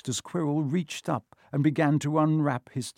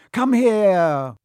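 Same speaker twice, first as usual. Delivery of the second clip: loud, higher repeated order; commanding; 7 semitones higher, 9 dB louder than usual. A narrator's reading. Quirrell repeats his order to Harry, commanding. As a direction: insist loudly that he obey.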